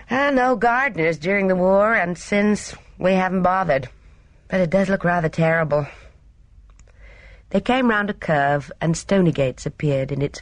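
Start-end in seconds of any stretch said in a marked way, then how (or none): 0.1-5.9 lightly voiced young woman, higher; apologetic young Gina. Gina explaining the neglected grounds to her companion, lightly apologetic. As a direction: explain it away in a higher, girlish voice.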